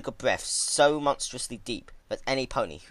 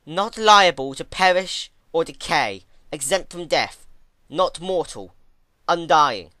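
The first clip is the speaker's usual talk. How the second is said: higher, louder, slow rote recital; reflexive recitation; 7 semitones higher, 11 dB louder than usual. A narrator's reading. Twilight reciting definitions to her old mentor on reflex. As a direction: rattle it off like a drilled student. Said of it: "Reflexively, she answered her old mentor".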